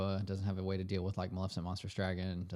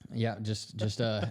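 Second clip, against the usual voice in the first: holding in a sneeze; fighting back a sneeze; stifled sneeze; slower than usual. Real, not acted. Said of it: "held in a sneeze there".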